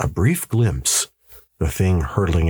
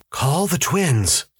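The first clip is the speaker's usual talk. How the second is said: higher, slow, insistent order; firm husband; 9 semitones higher, slower than usual. A narrator's reading. Husband cutting off his wife to call the twins, firm. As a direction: cut in with a slow command.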